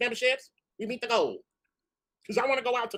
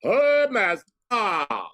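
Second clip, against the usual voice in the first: mock belle; 5 dB louder, much slower than usual. Southern-belle exclamation.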